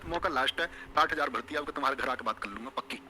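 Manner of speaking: a hint of a lovesick student; imitating a suitor's promise. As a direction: lightly play the boy swearing he'll win them over. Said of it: "तुमने कह रहे होगे".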